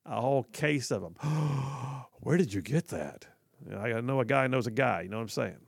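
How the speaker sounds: low hushed back-alley dealer; shady dealer. Acted. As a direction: sell it like a sketchy street dealer. Acts out black market dealer.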